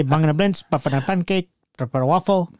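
laughing. Retold or imitated. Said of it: "So we say".

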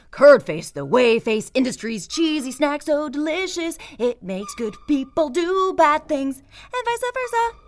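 loud upbeat commercial read. Retold or imitated. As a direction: pitch it like a TV ad. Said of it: "I miss those ads".

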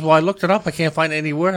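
quoting her. Retold or imitated. Voicing wife's defense.

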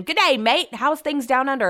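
mock hearty greeting. Drunk neighbor greeting Brett as an Australian, mock hearty. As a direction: hail him like a supposed Aussie pal.

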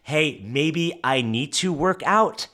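slow, lazy, offhand musing; mocking a half-hearted plan; mock casual. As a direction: toss it off like a maybe. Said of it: "It's not a".

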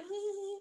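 high soft giggle; imitated giggle. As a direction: giggle like a happy kid. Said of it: "they reach the point and they're like".

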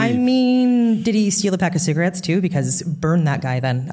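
high, sarcastic disbelief; sarcastic outrage. Real, not acted. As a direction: scoff at the idea. Mock outrage over flimsy suspicion.

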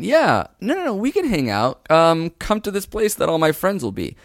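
high-pitched, sweetly evasive brush-off; sweet rejection. Acted. Woman dodging a date alone, sweetly evasive. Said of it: "very sweet way to reject someone".

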